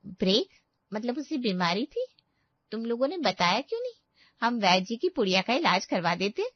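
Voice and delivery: fast, tumbling questions; rushed alarm. Acted. Aunt rushes out accusing questions. (घबराहट में तेज़ी से बोलना)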